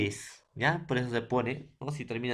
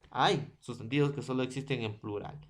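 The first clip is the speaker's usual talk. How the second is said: fast, softer restatement of "Hay sustantivos que solo existen en plural"; quick quiet repeat; 4 dB quieter, faster than usual. Shown as a demonstration. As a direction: rule repeated faster and quieter. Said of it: "repeats the rule".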